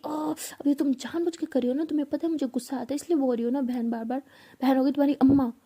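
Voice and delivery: rising to a loud, furious last line; angry outburst. Acted. Meera fed up with being called sister, angry outburst. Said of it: "गुस्सा करके चली जाती है".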